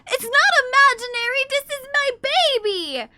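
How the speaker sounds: high, loud mock protest; insisting to chat the cat is real, mock indignant. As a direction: protest in jest.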